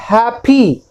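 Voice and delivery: "हैप्पी" said as two even beats, hap-pi; two syllables. Shown as a demonstration. Teacher showing a two-syllable word, beat by beat. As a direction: sound out both syllables of "हैप्पी". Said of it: "दो syllable हो गए ना".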